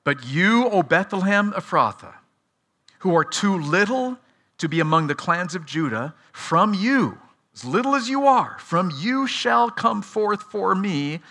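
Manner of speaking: measured scripture reading with deliberate pauses; spaced out so listeners follow every phrase; slow, careful reading. Real, not acted. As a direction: read it out slowly, phrase by phrase. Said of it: "slowly and carefully".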